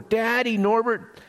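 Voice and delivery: high-pitched, mildly acted yell; excited child's yell. A narrator's reading. Little elephant running to hug his father, mock excited yell. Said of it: "yelled as he ran to hug".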